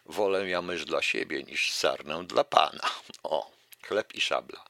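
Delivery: lively recital of a verse fable; fable reading. Acted. Lecturer reciting a fable to the audience, lively recital. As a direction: read the fable out to the audience with relish. Reads Krasicki fables aloud.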